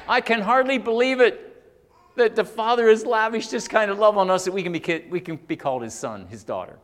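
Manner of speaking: high, loud, overwhelmed amazement; amazed disbelief. Acted. Preacher voicing John on the Father's lavished love, amazed. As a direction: exclaim it as if hardly able to believe it. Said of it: "that's what John is saying".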